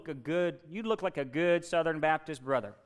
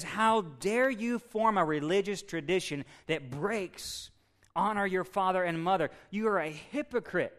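indignant rebuke; 3 semitones higher than usual. Acted. Jesus confronting religious leaders over their tradition, mildly angry. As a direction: preach it as a stern, measured scolding. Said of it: "Jesus got so mad".

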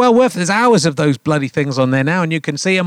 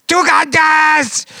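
put-on slow, high Welsh accent; 9 semitones higher, 3 dB louder, much slower than usual. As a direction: stretch the name out in a Welsh accent. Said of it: "That was a Welsh accent".

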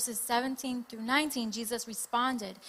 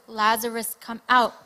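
loud call; 7 dB louder than usual. Retold or imitated. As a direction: call it out loudly, punching each part. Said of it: "called out in a loud voice".

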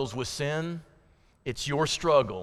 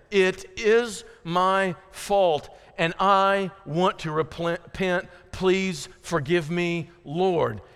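slow, deliberate confession; model repentance; 2 semitones higher, slower than usual. Shown as a demonstration. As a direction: own the fault word by word in prayer. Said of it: "this is the proper way to repent".

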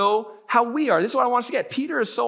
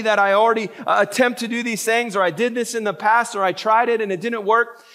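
mock defensive pleading. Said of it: "have I said".

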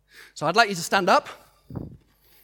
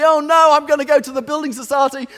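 fearful inner voice; 4 semitones higher, 3 dB louder, faster than usual. Retold or imitated. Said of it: "all the fears and the doubts".

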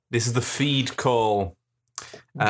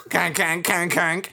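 duck greeting call; 7 semitones higher than usual. Shown as a demonstration. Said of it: "series of five to seven notes".

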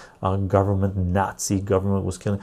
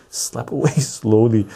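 laughing. Retold or imitated. Host repeats his own joke to viewers and laughs. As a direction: laugh through the warning.

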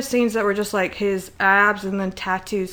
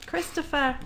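whiny wail; 6 semitones higher, 8 dB quieter than usual. Retold or imitated. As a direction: wail the name up high. Imitating the character's wail.

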